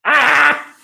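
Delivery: high, put-on effeminate "ah"; imitating a limp-wristed sigh; hammed-up dainty gasp; mock effeminate sigh. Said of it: "he was doing his hands like".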